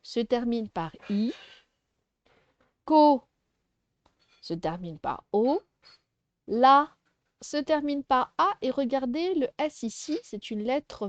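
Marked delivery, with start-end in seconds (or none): 2.9-3.2 Ko said alone, much louder; isolated loud syllable for the class; stressed syllable. Shown as a demonstration. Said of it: "la première syllabe". 6.5-6.9 Ko said alone, much louder; isolated loud syllable for the class; stressed syllable. Shown as a demonstration. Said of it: "la première syllabe".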